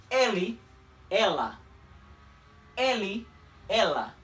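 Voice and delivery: "ele" with a closed final e, "ela" with a long, held L; Portuguese ele, ela. Shown as a demonstration. Teacher modelling Portuguese pronouns for Spanish speakers, lengthened L. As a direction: draw out the L of "ela" slightly. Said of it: "la L de ela es un poquito más alargada".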